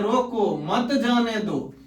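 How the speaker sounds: "रोको" apart, "मत जाने दो" together; pause after रोको. Shown as a demonstration. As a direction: attach मत to जाने दो, not to रोको. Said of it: "मतलब उसे जाने नहीं देना है". ("रोको" पर विराम, फिर "मत जाने दो")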